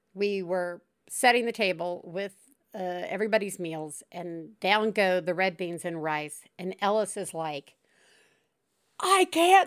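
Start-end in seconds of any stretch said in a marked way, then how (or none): 9.0-9.7 mock, very high, really upset wailing outburst. Retelling a child's reaction to dinner: imitating someone really upset. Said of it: "really upset".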